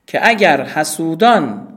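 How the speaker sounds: put-on slow, weighty reading of old Persian prose; classical recitation. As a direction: declaim the Saadi line slowly. Recites Saadi's classical text.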